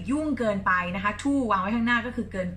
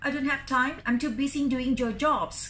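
cheeky; 3 semitones higher, much slower than usual. Shown as a demonstration. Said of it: "Spider-Man กวนมากเลยนะ".

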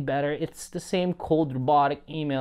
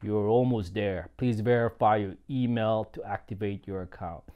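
monotone teacher impression; 8 semitones lower, 4 dB quieter than usual. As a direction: drone it like a bored teacher. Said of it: "speaking this in his monotone, sleep-inducing voice".

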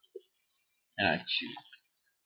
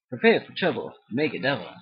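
Team Rocket quote; 5 dB louder than usual. Retold or imitated. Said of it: "Team Rocket quote".

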